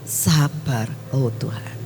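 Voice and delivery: put-on calm a child down tenderly; gentle calming voice. Holy Spirit calming the angry preacher, gently soothing. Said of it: "cuma ngomong".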